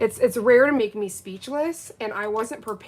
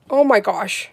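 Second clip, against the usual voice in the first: excited exclaim; 9 dB louder than usual. Real, not acted. Loud awe contrasted with whisper.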